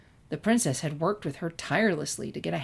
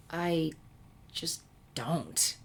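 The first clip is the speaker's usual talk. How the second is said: sourly; 5 dB quieter, much slower than usual. A narrator's reading. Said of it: "she concluded sourly".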